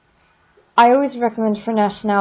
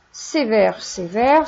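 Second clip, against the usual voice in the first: usual speaking voice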